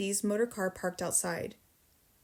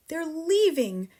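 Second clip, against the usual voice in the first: slow, high, loud distressed cry; breathless alarm after running; cried out; 7 semitones higher, 6 dB louder, slower than usual. A narrator's reading. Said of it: "she cried".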